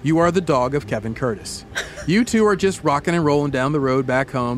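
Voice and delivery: low, measured storyteller; scene-setting narration. A narrator's reading. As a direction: ease the listener into the scene. Sets a second-person scene.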